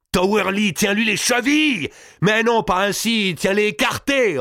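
high, impatient commands; shouted orders. A narrator's reading. Gournay directs the giant pinning the king, shouted orders. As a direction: shout instructions mid-struggle, voice way up. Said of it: "ordonna Gournay".

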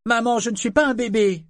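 put-on high, loud indignant child, "pas" stamped; angry child's cry. A narrator's reading. Boy pushes his mother away, loud high angry child. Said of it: "cria-t-il fâché".

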